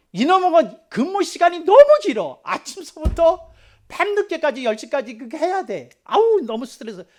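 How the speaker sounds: stressed, high, loud complaining tone.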